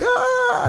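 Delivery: imitated wail. Shown as a demonstration. Imitating an unsettling sound, demo.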